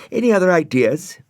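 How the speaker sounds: put-on high, loud girlish hello; a little girl calling out while spinning; Florence. A narrator's reading.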